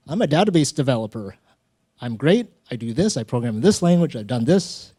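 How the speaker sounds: a retold candidate reeling off his skills in a rush; eager job seeker.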